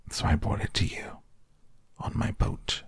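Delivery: dropping to a near-whisper; Pooh's quiet, unvoiced ending; soft hushed Pooh. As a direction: murmur it shyly as Pooh.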